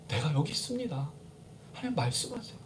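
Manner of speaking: very soft, reverent acted prayer; hushed surrender. Preacher as Jacob answering God, hushed surrender. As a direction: offer yourself to God almost under your breath.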